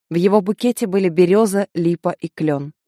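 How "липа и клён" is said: ordinary delivery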